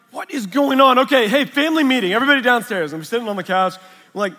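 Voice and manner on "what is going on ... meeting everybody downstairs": calling out. Retold or imitated. Calling family meeting.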